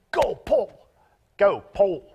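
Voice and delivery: rooting for the volunteer reader; cheering him on. Real, not acted.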